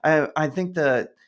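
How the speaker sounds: high, quick excited voice; lightly voiced excited waiter; imitating the waiter. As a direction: rush it like an eager fan. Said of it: "And he goes".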